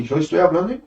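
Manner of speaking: retold lines in Spanish pronunciation. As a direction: switch into spoken Spanish. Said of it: "em espanhol". (em espanhol)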